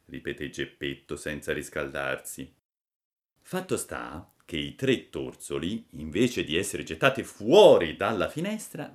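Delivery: ordinary delivery, nothing marked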